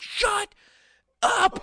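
very high, loud yell; mock yell at the chatty moviegoer; shout. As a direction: snap it out at full force. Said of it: "I'm like".

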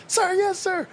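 high yelled sir yes sir; recruit shouting back. Retold or imitated. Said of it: "and he's like".

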